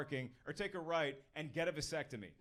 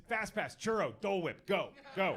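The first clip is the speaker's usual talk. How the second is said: mock barked orders. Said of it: "barking out orders to their kids".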